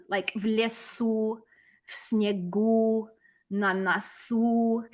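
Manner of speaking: slow list, final u drawn out in lesu, snegu, nasu; stressed u endings. Shown as a demonstration. Teacher listing old endings, final u stressed in lesu, snegu, nasu. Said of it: "and it's stressed".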